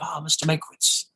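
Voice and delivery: a touch of maitre d' performance; acted maitre d' greeting. Maitre d' greeting Mankiewicz, lightly acted. Acting out his line on set.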